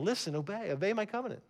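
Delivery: softly, as God's earnest call; preacher softly voicing God's command to obey; hushed plea. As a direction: draw the listeners in by dropping to a hush.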